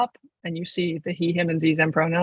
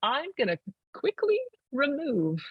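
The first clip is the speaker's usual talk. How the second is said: inner thought; 7 semitones higher, 6 dB quieter than usual. Retold or imitated. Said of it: "And I was like".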